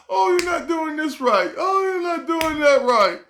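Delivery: hammed-up online critics nagging; mock scolding critics. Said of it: "you go back on there".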